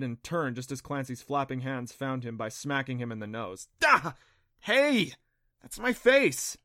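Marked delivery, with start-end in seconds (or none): 3.8-6.6 high, giggly yelps; startled and giggling. Acted. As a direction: squeal through a giggle. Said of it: "she giggled".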